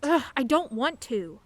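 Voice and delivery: sulky refusal. Acted. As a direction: groan it out like a sulky teen. Teen refuses, groaning.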